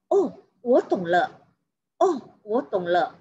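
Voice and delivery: falling Oh of realisation; dawning understanding. Shown as a demonstration. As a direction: demonstrate suddenly getting it. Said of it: "menyatakan pengertian atau penyadaran". (baru paham, Oh bernada turun)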